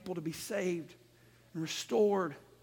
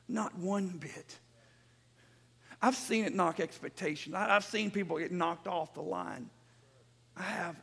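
hushed preaching; 3 dB quieter than usual. Real, not acted. Preacher admits seeing people knocked off the line, hushed preaching. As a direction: bring the sermon right down to a confiding level.

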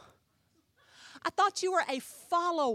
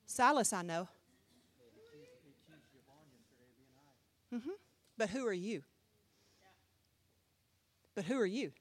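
demon voice; 7 semitones lower than usual. Retold or imitated. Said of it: "That demon will speak back".

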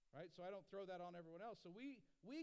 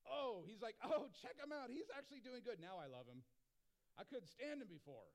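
mock fickle God; 4 semitones higher, 4 dB louder than usual. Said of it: "It wasn't all of a sudden like".

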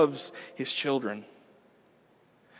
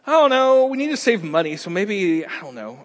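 higher, whiny unsure voice; indecisive wife; 3 semitones higher than usual. Acted. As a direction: dither and sigh like a fretting wife. Wife voice in couple skit.

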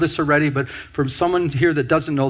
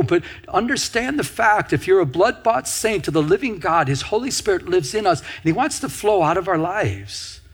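higher-pitched, rolling preacher's delivery; preaching; 4 semitones higher than usual. Acted. Preacher urging the congregation that the Holy Spirit moves, preaching. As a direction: press each phrase home in a raised pitch.

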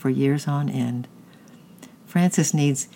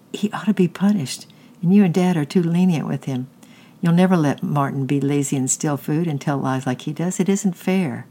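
raised, insistent appeal; pleading; 3 semitones higher than usual. Acted. Kate pleads with her mother that Francis be punished. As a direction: argue that it's unfair.

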